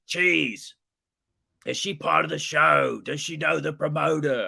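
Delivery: high, bewildered New Zealand voice; thick New Zealand accent. Retold or imitated. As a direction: imitate a puzzled New Zealander. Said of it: "New, New Zealand accent".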